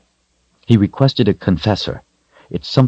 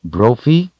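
higher, reproving call of a name; disapproving; 7 semitones higher, 3 dB louder than usual. A narrator's reading. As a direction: let him know she disapproves. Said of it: "in a disapproving voice".

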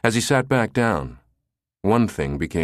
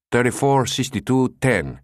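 higher, stuffed-up caller voice; nasal with a cold; 5 semitones higher than usual. Acted. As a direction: sound like you have a slight cold. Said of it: "He sounded nasal".

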